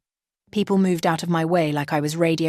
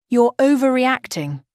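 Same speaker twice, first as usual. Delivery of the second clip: louder, higher dismissive snap; 7 semitones higher, 5 dB louder than usual. Acted. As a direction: wave her off, irritated. Groom dismisses bride.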